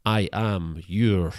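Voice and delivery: slow, grand host announcement; mock-grand host voice, slowed; show host intro. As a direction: introduce the show like a pompous presenter.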